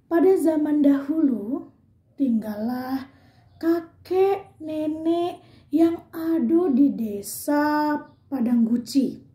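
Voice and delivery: slow storyteller narration; calm storybook narrator. Shown as a demonstration. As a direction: tell it like the opening of a folk tale. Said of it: "Itu suara narasi".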